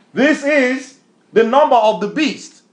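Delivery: excited declaration. Real, not acted. Excited reveal after laugh.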